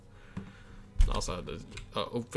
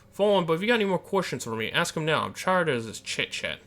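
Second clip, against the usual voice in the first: impatient grump; 4 semitones higher than usual. Acted. Keeper grows impatient.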